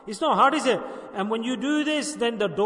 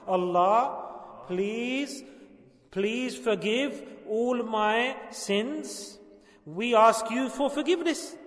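slow, measured prayer for repeating; deliberate supplication with pauses between phrases; leading a prayer; slower than usual. Shown as a demonstration. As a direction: lead them phrase by phrase, drawing words out. Leads congregation in repentance prayer.

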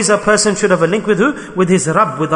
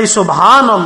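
Subhanallah called out louder, with conviction; exclaimed Subhanallah; 2 semitones higher, 6 dB louder than usual. Shown as a demonstration. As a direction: proclaim Subhanallah to the room.

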